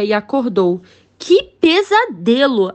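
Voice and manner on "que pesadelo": startled. Acted. King waking from nightmare.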